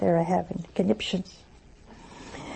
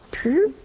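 imitated puff of dust; 6 semitones higher than usual. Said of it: "It just goes".

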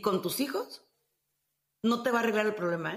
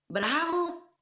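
mock applause, pitched up high; sarcastic bravo; 6 semitones higher than usual. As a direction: cheer it sarcastically, mocking the excuse. Sarcastic reply to the excuse.

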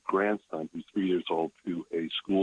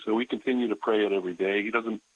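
ordinary talk, nothing marked

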